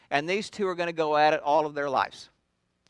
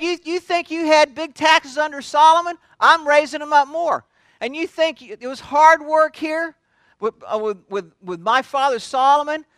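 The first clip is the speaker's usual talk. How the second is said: loud, raised-pitch mock tirade; harsh royal threat; 7 semitones higher, 6 dB louder than usual. King warning his people of heavier taxes, harsh and loud. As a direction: lay down the law at full volume. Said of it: "King answered the people harshly".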